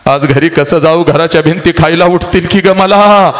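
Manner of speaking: a mother's lament, cry breaking through; wailing mother. Retold or imitated. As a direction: plead like a mother losing her daughter. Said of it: "हंबरडा फोडत तुझी आई तुला म्हणते".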